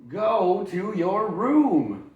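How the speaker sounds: very slow, high, loud order; stern mother sending him off; mom scolding. Acted. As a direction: drag out each word. Mom sending David away.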